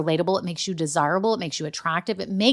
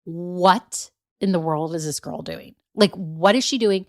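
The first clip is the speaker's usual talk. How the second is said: imitating a baffled coach watching; bewildered inner voice; 3 semitones lower than usual. Life coach eyeing her through the camera, mildly bewildered. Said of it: "looking at me through the camera going".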